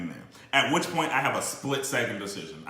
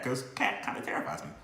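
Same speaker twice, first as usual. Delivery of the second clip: hushed whisper of a secret; 9 dB quieter than usual. Real, not acted. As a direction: whisper it like she might hear. Joking aside about scary girlfriend.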